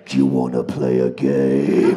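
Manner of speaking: very low, slow, loud villain voice; menacing captor. Retold or imitated. Captor to man chained to radiator, menacing voice. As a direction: growl it like a horror-film tormentor. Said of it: "someone going".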